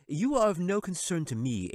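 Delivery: high, sly wizard voice. Acted. Wizard dismissing the angel, sly and high. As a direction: sneer it down from the throne.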